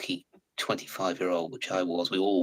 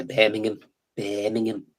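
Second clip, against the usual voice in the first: "Birmingham" in a Brummie accent; light imitation of a Brummie; 2 semitones higher than usual. Shown as a demonstration. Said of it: "the Brummy accent right there".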